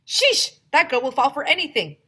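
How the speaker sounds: high, loud mocking scoff; high, loud eye-rolling scoff; scoffing kid. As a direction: sneer at how gullible she is.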